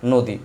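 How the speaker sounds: slow নদী, "no-di" with closed o and short i; rule-based pronunciation. Shown as a demonstration. Teacher repeats the result for students, slow short-i pronunciation. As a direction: spell out নদী slowly as no-di, short final i. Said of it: "দীর্ঘই রস্যই হয়ে যায়".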